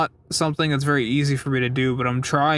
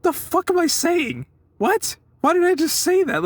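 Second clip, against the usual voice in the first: high, strained inner voice mocking himself; high-pitched self-mocking inner panic; panicked inner voice. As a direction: squeak out his own cringing thoughts. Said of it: "I was thinking to myself, I'm like".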